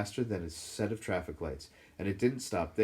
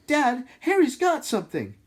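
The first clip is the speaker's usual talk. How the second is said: sharp, high call for dad; sudden shout; 10 dB louder than usual. A narrator's reading. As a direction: blurt it out loud and high. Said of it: "said Dudley suddenly".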